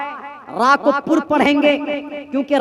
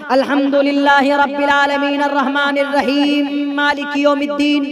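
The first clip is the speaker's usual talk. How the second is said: tajweed recitation. Shown as a demonstration. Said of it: "तजवीज पढ़कर सुना रहा हूं".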